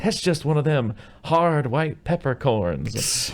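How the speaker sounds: slow, drawled put-on country man; mock yokel, slow; slow hick voice. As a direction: stretch it out like a sly cook. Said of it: "he's like".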